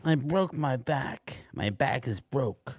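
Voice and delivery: slow, lisping boxer voice; Mike Tyson voice. Acted. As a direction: mumble it slowly with a lisp. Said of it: "If you do a Mike Tyson voice".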